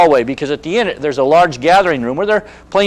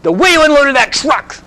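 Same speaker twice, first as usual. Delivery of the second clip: put-on higher, slow, odd old man voice; slow, higher imitation of the old man; confused angry old man; 11 semitones higher, 4 dB louder than usual. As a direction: act out a muddled grumbling resident. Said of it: "And he goes".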